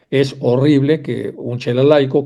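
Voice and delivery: ordinary delivery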